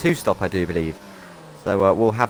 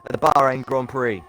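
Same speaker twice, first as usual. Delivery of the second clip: excited play-by-play; 4 semitones higher than usual. Real, not acted. Overtake for the race lead.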